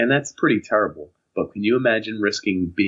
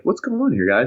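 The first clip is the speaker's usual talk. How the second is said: high, mock-stern cop; 4 semitones higher than usual. Cop questioning the car of teens, mock-stern. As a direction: play the suspicious officer. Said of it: "he's like".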